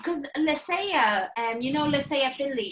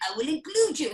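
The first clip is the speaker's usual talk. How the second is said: mock formal Martin. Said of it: "He doesn't speak like that".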